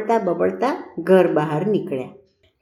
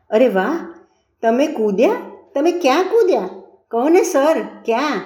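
excited questioning; 6 semitones higher than usual. A narrator's reading. Pupil eagerly questions tutor's leap.

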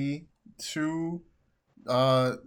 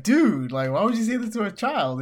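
higher, louder mock outrage; outraged Shocker; 8 semitones higher, 7 dB louder than usual. Host voicing Shocker scolding Speed Demon, loud mock outrage. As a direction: play it appalled and loud. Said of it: "Shocker's like".

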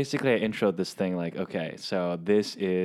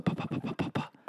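mouth pops; 9 dB quieter than usual. Shown as a demonstration. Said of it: "when you do the pop filters".

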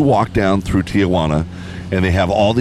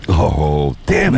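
hammed-up damn it, pitched way up; mock disappointment; 4 semitones lower, much slower than usual. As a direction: fake sulk at the ban. Mock disappointment over donkey ban.

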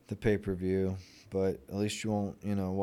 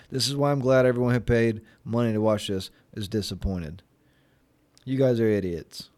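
ranting; 6 dB louder than usual. Real, not acted. Ranting at pay-per-view buyers.

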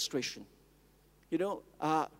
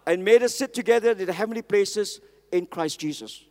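louder, raised proclamation; call to repeat; 6 dB louder than usual. Real, not acted. Preacher leading the congregation, loud proclamation. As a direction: preach it out for the church to echo. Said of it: "Somebody say".

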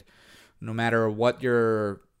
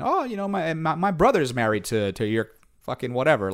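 imitating local; 4 semitones higher than usual. Locals tracing family, quoted.

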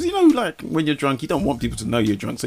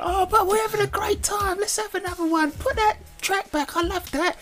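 put-on very high, squealing party girl; giddy tipsy reveller, slow; drunk party voice. Voicing drunk party friends.

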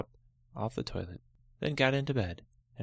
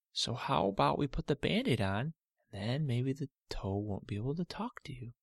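lightly voiced, slightly higher soothing dad; dad calming his daughter; 4 semitones higher than usual. Father calming Olivia about her cut toe, gentle. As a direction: gently reassure the hurt girl.

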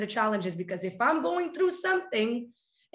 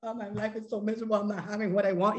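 mock whiny complaint; faster than usual. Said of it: "we're, like, here waiting".

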